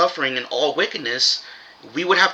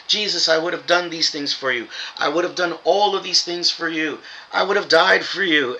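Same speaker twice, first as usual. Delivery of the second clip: higher-pitched pleading, lightly acted; earnest protest; 3 semitones higher than usual. Followers protesting to Jesus that they would have helped, mildly pleading. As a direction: imitate followers pleading their devotion.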